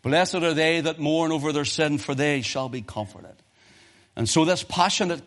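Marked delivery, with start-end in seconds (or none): 0.0-3.3 firm proclaiming. Shown as a demonstration. Preacher proclaiming the beatitude to the congregation, firm. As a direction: declare it plainly to the hall. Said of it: "quoted twice, then firm".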